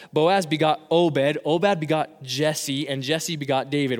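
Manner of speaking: unhurried Bible reading, names spaced out; scripture reading. Acted. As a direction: read each name out deliberately from the pulpit. Reads the genealogy aloud.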